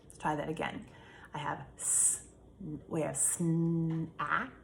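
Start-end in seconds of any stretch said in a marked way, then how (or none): 2.9-4.5 snack stretched slowly, each sound drawn out. Shown as a demonstration. Teacher sounding out snack slowly for students. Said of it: "I'm gonna take out the a".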